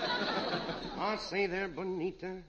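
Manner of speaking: slow, hammed-up British accent, laughing. Comic offering Bonita tea in a hammy British accent. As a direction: act the gentleman with a put-on British accent. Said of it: "What is this monocle British accent".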